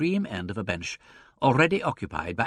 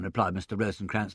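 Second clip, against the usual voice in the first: plain reading voice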